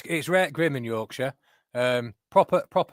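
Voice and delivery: mock broad Yorkshire, "rare grim" said for "real grim"; broad Yorkshire accent. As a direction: put on a thick Yorkshire accent to play the local reporter. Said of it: "Why are you dialing down your accent".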